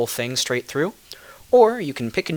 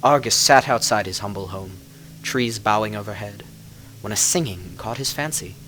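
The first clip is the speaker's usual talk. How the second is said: measured storyteller telling a dark fairy tale; story narration; 3 dB louder than usual. A narrator's reading. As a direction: draw listeners into a legend. Reads a fairy-tale style tale.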